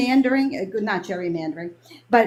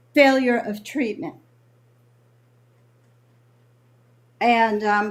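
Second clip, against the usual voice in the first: choked-up voice, catching with emotion; 3 semitones lower than usual. Speaker explains why they left, choked up. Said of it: "I'm choked up".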